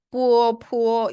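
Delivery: 뿌어, 푸어 with a rounded glide from u to eo; Chinese pinyin reading. Shown as a demonstration. Teacher contrasts Chinese with English, rounded 뿌어, 푸어. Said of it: "중국어에서는".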